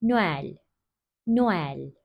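"Noel" as no-el, the o and e each heard; both vowels sounded. Shown as a demonstration. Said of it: "iki sesli harfi de okuyoruz". ("Noel" derken iki sesliyi de okuyarak)

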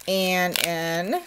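hiccuping mid-sentence; talking through hiccups. Real, not acted. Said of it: "I got the hiccups".

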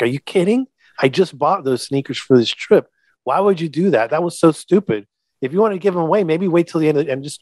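dad retelling how he yelled at his son; retold yelling. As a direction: scold the kid, pitch climbing high. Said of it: "and I yelled at him".

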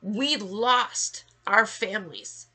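loud, pained anger; angry, grieving rant. Real, not acted. Survivor telling viewers what she lost, loud and angry. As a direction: cry out the loss in anger. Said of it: "Rant over".

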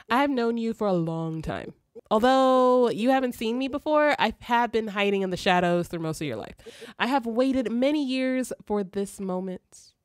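lightly voiced, measured storyteller spirit; solemn spirit guide. Spirit revealing its realm to a chosen human, lightly acted solemnity. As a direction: explain it formally, stretching key phrases.

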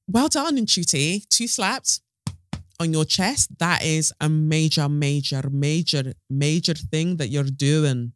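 attempted Scottish accent, drawn out at the end. Shown as a demonstration. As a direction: have a clumsy go at a Scottish accent. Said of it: "that was my Scottish accent".

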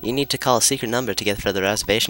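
attempted British accent, pitched a little up; British-ish accent. Game character offering a secret club number, British-ish accent. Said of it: "I wanna work on that accent, that, like, you know, that British-ish accent".

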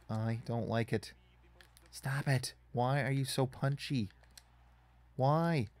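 exasperated, building to pissed off; annoyed. Real, not acted. Annoyed at the opponent punching.

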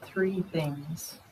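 unhurried, hushed meditation guide; guided meditation. Real, not acted. Teacher guiding meditators through the senses, quiet guided meditation. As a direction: ease them inward, leaving long pauses.

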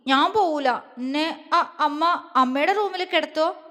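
put-on small, halting girl's plea; mildly fearful pleading; timid plea. A narrator's reading. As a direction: beg shyly, stumbling on the words. Frightened girl pleads with mother.

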